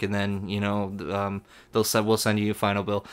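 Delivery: low, soft, even rep voice; lightly voiced unfazed phone rep; calm rep. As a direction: stay calm and polite.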